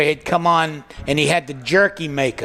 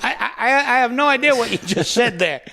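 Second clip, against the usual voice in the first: laughing baffled reply; 7 semitones higher than usual. Retold or imitated. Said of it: "And you go".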